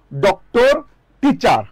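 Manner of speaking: ডক্টর and টিচার each in two beats; careful syllable demo. Shown as a demonstration. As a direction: split ডক-টর, টি-চার clearly. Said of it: "খুব খেয়াল করিয়েন".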